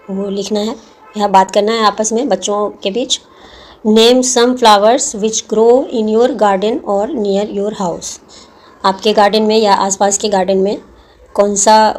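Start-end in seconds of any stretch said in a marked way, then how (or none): 3.9-8.2 reads the question out slowly, word by word; slow textbook reading. Acted. Teacher slowly reading a textbook question to the pupils. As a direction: spell out the question for the class.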